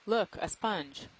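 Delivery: half-serious excitement, stretched out slow; teasingly enthusiastic. Real, not acted. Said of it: "Wow, you sound enthusiastic".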